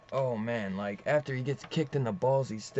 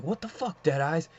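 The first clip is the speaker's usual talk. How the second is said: retold startled reaction; 4 semitones higher than usual. Retold startled reaction to Deadeyes arriving.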